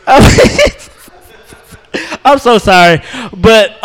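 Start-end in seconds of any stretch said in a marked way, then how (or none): 0.1-0.9 flustered laughing. Real, not acted. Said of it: "this is so uncomfortable for me".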